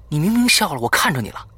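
loud, high-pitched accusation; confrontational challenge. A narrator's reading. Boy confronting his friend about laughing, loud challenge. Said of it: "我质问他".

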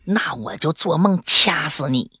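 slow, mildly scornful retort; imitating a dismissive partner. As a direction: toss back a drawn-out mock threat. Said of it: "我对象一脸不屑地说".

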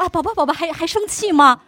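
a hint of a doting husband; coaxing husband. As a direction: check if wife is still mad, lightly voiced. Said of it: "他说".

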